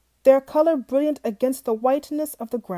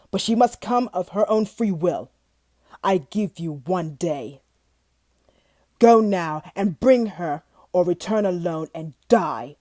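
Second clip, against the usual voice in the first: stern beast; 3 semitones lower, 3 dB louder than usual. Acted. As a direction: lay down the terms coldly. Beast dictates terms.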